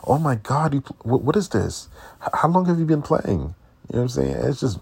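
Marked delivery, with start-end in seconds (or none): 0.1-3.4 higher, louder eager tumble of questions; mock gushing. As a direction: play the stumbling starstruck stranger. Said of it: "come around and be like".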